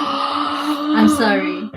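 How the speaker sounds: slow breathy whisper; whispered apology. Real, not acted. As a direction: whisper it slowly.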